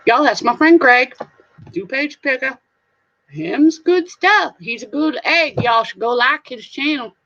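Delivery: light hillbilly twang; redneck hillbilly. Pretend. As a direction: plug a buddy in a playful redneck accent. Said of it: "redneck hillbilly sounding coming out of my voice".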